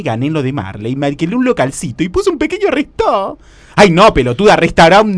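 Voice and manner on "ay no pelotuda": exasperada, con la voz más fuerte; corregí a tu amiga con fastidio; indignada. Acted. (indignada, perdiendo la paciencia)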